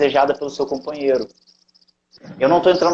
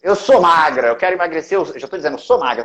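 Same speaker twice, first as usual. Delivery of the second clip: slow, higher, louder declaring voice; mock affirmation; 7 semitones higher, 4 dB louder than usual. Declaring a weight-loss affirmation aloud in a higher, louder voice. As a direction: declare it like a proud mantra. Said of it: "por exemplo".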